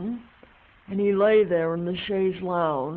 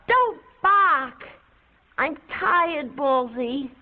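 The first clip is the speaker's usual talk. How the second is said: sharp high scold; scolding the dog; 5 semitones higher, slower than usual. Real, not acted. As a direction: snap at the dog to hush.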